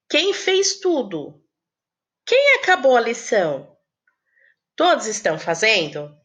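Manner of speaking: teacher checking on pupils; question intonation. Shown as a demonstration. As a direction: let the tune show each is a question. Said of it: "a Pro usa aí o ponto de interrogação até na entonação".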